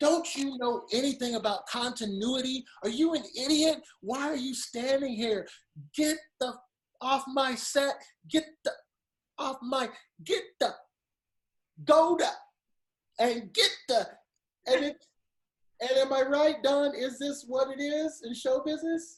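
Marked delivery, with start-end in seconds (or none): 0.0-14.1 imitated yell, pitched higher. Retelling how a man on a film set yelled at an extra: imitating someone yelling. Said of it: "yells at her from out of blue".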